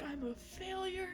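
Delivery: small, high, soft self-pity; mock misery; miserable. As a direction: imitate someone miserable, softly and high. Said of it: "She feels miserable".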